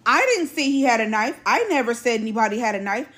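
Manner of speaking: mild mock yell of denial; retold yelling. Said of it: "She yells".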